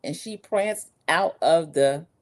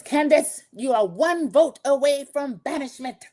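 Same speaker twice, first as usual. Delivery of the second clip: mock host announcement; 7 semitones higher than usual. Recapper voices host Alan's announcement.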